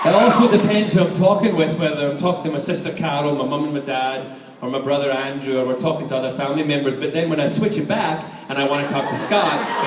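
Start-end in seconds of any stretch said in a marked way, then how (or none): 0.1-7.0 Scottish lilt, talking about family; Scottish accent. Shown as a demonstration. Showing the audience his family voice, Scottish accent. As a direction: chat in a native Scottish accent. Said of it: "turns it into a Scottish accent".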